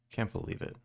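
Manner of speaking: breathy whispered aside. Real, not acted. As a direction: whisper it to yourself. Embarrassed by chat's teasing.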